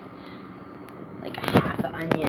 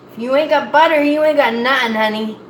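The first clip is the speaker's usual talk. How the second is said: sassy cook; 4 semitones higher, 7 dB louder, faster than usual. Acted. Sassy cooking advice to viewers.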